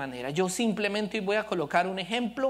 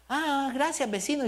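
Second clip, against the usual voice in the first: put-on kids' reply; 5 semitones higher than usual. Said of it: "children brushing him off".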